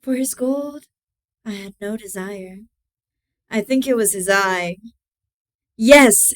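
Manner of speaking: measured horror-story reading with pointed pauses; dramatic story narration. A narrator's reading. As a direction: read a dark confession, punching key phrases. Reads Poe story aloud.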